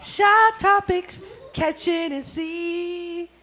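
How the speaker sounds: slow, high hype announcer. Pretend. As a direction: sell the show name like a promo. Hyping the show tagline.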